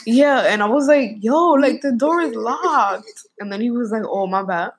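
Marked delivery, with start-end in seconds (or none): 1.2-3.3 higher-pitched, drawn-out objection; retold exasperated protest. Retold protest to panicking boyfriend. 4.1-4.7 offhand imitated apology at usual pitch; nonchalant. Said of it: "Like, mad nonchalant".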